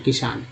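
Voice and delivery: किसान spoken like a teacher's demo; careful pronunciation. Shown as a demonstration. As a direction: spell out किसान as ki-saan. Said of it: "ये double एस का यहाँ प्रयोग किया गया".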